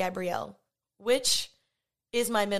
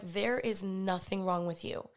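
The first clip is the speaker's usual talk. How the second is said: slow, soft, retold reassurance; gentle reassurance; 3 semitones lower, 5 dB quieter, slower than usual. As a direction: reassure her softly, word by word. Reassuring the anxious girl.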